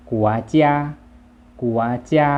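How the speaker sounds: กัวเจีย as loud Chinese, stepping up; Chinese pronunciation. Shown as a demonstration. Teacher models the word, Chinese pronunciation of กัวเจีย. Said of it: "ภาษาจีนจะอ่านว่า".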